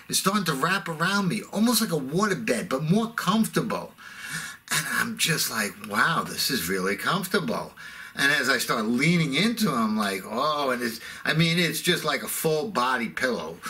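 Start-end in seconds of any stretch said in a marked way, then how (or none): 5.9-7.7 low, pleasantly surprised contentment; dreamy, low-voiced comfort; blissful contentment. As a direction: sink into it, low and relaxed. Blissed out on seatmate's belly.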